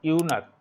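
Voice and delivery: ইউনাক ending in a hard k; ইউনাক, with k for the final ch. Shown as a demonstration. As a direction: pronounce the CH in ইউনাক like a k. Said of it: "এখানে সিএইচ এর উচ্চারণটা কয়ের মতো".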